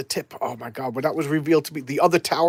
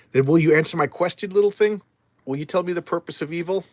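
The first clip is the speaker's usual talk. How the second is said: darkness entity; 4 semitones higher, 3 dB louder than usual. Acted. Ancient darkness greeting Swamp Thing, grand and lightly voiced. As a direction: speak down to a small visitor like an ancient power.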